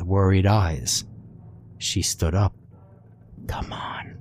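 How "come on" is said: breathy unvoiced whisper. A narrator's reading. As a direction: whisper it urgently. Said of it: "she whispered".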